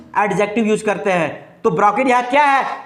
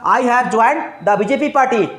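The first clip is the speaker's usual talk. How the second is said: slow dictation; slower than usual. Shown as a demonstration. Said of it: "मैंने क्या लिखा?".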